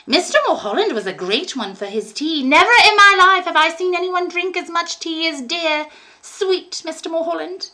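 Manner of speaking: put-on high, sugary old lady voice, softening at the end; a doting landlady, gushing then hushed; sweet old landlady. A narrator's reading. Landlady fawning over young Billy, sweet high voice.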